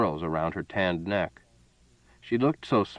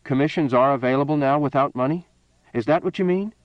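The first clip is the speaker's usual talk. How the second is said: urging; 6 semitones higher, 3 dB louder than usual. A narrator's reading. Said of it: "Cale urged".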